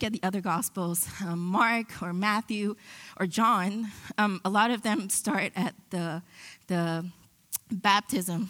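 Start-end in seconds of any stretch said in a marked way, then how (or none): 4.2-8.5 voice cracking. Real, not acted. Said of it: "Sorry, my voice is cracking".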